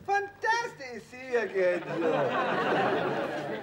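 big bright welcome, pitch up; hearty greeting. Acted. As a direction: greet him like an old friend.

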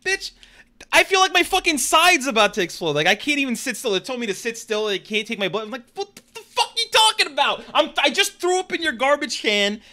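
high, loud exasperated shouting at the nurses; retold angry yelling. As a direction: yell at them like you're about to burst from pain.

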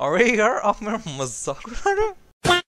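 high, fast soap opera whine; Hindi serial actress. Pretend. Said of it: "Then Sabi shows up".

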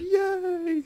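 high, delighted squeal of victory; excited cheer. Real, not acted. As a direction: cheer like you just won. Finally won a challenge.

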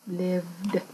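"Believed" ending in a voiced d; final d released. Shown as a demonstration. Teacher showing the voiced ending, "Believed" with a clear final d. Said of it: "chúng ta cũng bật là âm d".

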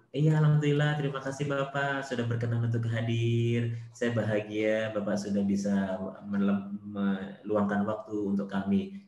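mock-polite, gently lingering gratitude; gentle to your face. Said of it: "di depan lembut".

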